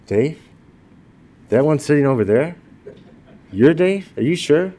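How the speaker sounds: can't believe it's him; disbelieving guests. Retold or imitated. Guests at the party doubting he is gentle, mock disbelief.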